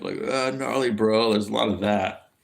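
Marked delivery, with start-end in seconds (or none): 0.2-1.3 slow, drawn-out surfer dude; lightly imitated surfer-dude talk; surfer bro. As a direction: drag it out like a laid-back surfer bro. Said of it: "surfer bro dude type way".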